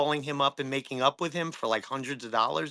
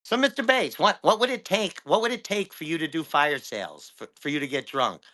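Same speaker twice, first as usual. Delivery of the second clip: cool actor voice. Retold or imitated. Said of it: "he's got that voice, like a kinda cool voice, like an actor voice".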